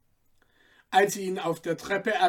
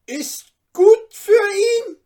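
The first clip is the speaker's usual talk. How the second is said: much higher, louder rasping curt voice; 14 dB louder, slower than usual. Acted. Iron merchant cutting off the father, rasping. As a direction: snarl it off dismissively. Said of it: "mit schnarrendem Tone".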